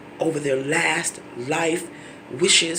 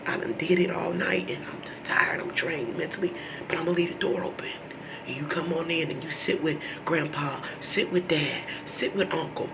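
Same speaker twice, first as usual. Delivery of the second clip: quiet, drained, near whisper; a worn-out caregiver speaking softly; tired soft plea; 6 dB quieter than usual. Retold or imitated. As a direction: say it exhausted, barely above a whisper.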